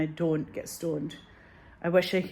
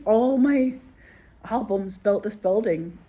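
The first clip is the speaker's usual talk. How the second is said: louder, higher, then slowing; mock indignant singer; 4 semitones higher, 6 dB louder, slower than usual. The singer to the label, mock indignant and loud. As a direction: insist on it with wounded pride. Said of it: "He's like".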